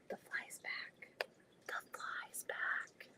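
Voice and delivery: slow breathless whisper of "The fly's back". Real, not acted. Muttering to herself about the returning fly, whispered. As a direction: hush it to yourself, slowly.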